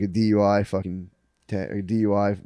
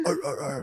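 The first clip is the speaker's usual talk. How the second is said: imitated grumbling noise; 4 semitones higher, 8 dB quieter than usual. Imitates himself while officers leave.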